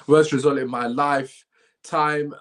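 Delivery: slow, solemn announcement of the result; dramatic read. Real, not acted. Fan reading the scoreline to viewers, slow and grave. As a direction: read it out like grim breaking news. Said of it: "I don't know why I read it like that".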